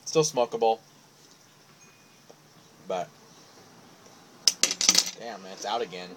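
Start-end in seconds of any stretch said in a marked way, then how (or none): 2.9-6.1 talking around pipe stem; pipe in mouth. Real, not acted. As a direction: lips gripping pipe. Seen 1: Pipe stem clenched between lips throughout the labelled words.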